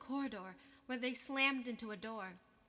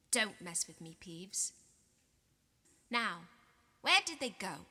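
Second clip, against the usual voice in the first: threatening; 2 semitones lower, 5 dB louder than usual. Acted. Filch threatening Peeves.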